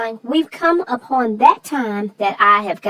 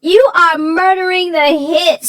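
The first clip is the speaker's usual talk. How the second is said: mock panic; 6 semitones higher, 3 dB louder, slower than usual. Mock horror at bad singing.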